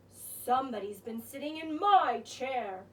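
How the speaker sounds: a hint of a grumbling bear father; growling Papa Bear. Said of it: "growled Papa Bear".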